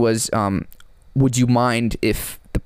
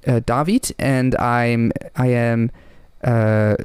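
hard German accent; much slower than usual. Shown as a demonstration. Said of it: "the real hard one is like".

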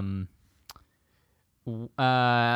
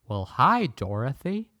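Scarecrow voice. Acted. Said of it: "here's my impression of the Scarecrow".

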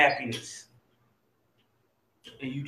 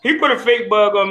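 laughing; 6 dB louder than usual. Real, not acted. Laughing over fake bug prank.

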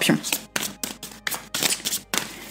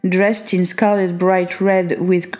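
reading English aloud in a strong French accent, some words slowed. Real, not acted. Reading the English card text to the viewer, French accent. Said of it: "je te lis avec mon accent, euh, bien pourri".

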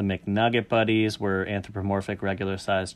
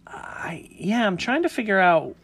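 whispering; 8 semitones higher than usual. Real, not acted. Puzzled aside while reading.

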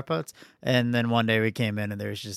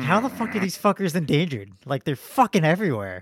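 "endangered" said in pitched-up disbelief; exasperated rant; 4 semitones higher than usual. Retold or imitated. Retelling his outrage at the bird removal service, exasperated and pitched up. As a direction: vent at how absurd "endangered" is. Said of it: "I'm like".

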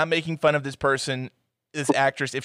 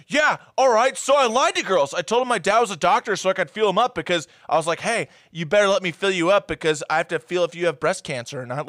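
mock Barry; 3 semitones higher than usual. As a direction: shrug it off, lightly hammed. Mocking Barry's confession.

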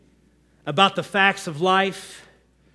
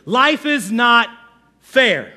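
drawn-out, emphatic whiny complaint; mock whiner; 2 semitones higher, 4 dB louder, slower than usual. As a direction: complain slowly, a pause before the last word. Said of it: "King David was a whiner".

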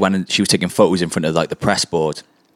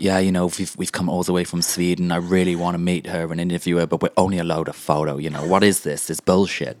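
put-on Swedish accent; 4 dB quieter than usual. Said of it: "I kept it as Sven".

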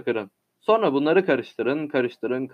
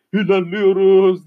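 slow, louder cheer; joyful; 4 semitones higher, 5 dB louder than usual. A narrator's reading. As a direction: cheer that the ship moves on. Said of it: "diye seviniyorlar". (sevinçle haykırış)

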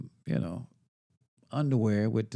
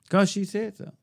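high, bright mock call to the crew; mock high announcement; 10 semitones higher, 4 dB louder than usual. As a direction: sing out a high fake-cheerful stop to the workers. High mock answer to workers.

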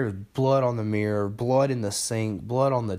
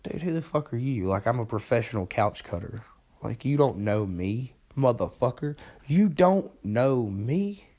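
inner indignation. Retold or imitated. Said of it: "In my head, I'm like".

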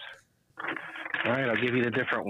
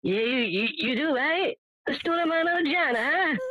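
imitating Italian accent. Ordering the Mangiana, imitating the pizza man's Italian accent. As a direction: push the Italian accent up high and hearty. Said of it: "And I'll go".

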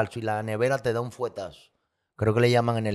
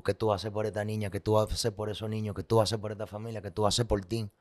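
softer, hushed self-questioning; inner voice; 6 dB quieter than usual. Retold or imitated. Man voicing the questions his conscience asked him, hushed. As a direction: let the conscience murmur each question.

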